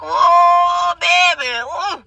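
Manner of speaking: hammed-up New Orleans lover voice; New Orleans accent.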